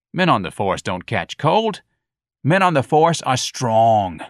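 slow, emphatic scolding; stern lecture. Acted. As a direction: lay down the law slowly. Sergeant lecturing.

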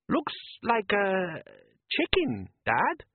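put-on high young boy's voice, uneasy; a worried son asking his dad; boy Les. A narrator's reading. Son Les doubting his father at sea, high uneasy boy voice.

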